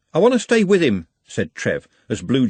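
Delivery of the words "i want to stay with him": high, loud plea; pleading. Acted. Trev begging to stay with Nut, high plea. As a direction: beg to stay.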